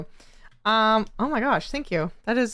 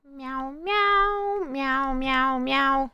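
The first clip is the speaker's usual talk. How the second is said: cat meow; 5 semitones higher, much slower than usual. Pretend. Streamer meows at chat.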